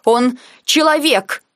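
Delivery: slow, emphatic indignant objection; heated protest. Acted. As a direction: insist hotly, pressing each word. Heated quarrel over Nike.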